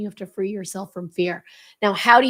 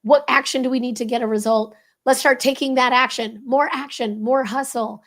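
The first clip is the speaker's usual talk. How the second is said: imitating pushy leaders; 3 semitones higher, 3 dB louder than usual. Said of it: "which most leaders go to".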